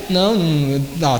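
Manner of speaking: ordinary talk, nothing marked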